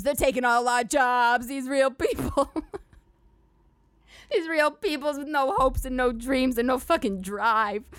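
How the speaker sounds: mock redneck rant.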